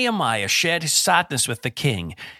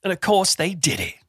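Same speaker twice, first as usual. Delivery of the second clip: boastful show-off; 6 semitones higher than usual. Retold or imitated. Mocking a bragger who walks in and demands things, cocky swagger. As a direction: puff yourself up like a bragging hero. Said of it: "they say things like".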